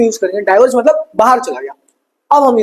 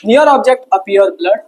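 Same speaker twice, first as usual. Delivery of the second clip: dictation; much slower than usual. Shown as a demonstration. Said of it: "dictating notes".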